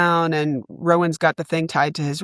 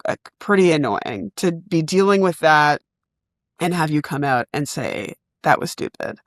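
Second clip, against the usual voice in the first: calm and tired. Retold or imitated. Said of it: "I calmly and tiredly".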